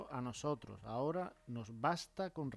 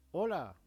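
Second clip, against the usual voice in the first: "Hola" exclaimed, higher and louder; exclamatory tune; 4 semitones higher, 5 dB louder than usual. Shown as a demonstration. Teacher demonstrating an exclamatory greeting, higher and louder. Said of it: "con entonación exclamativa".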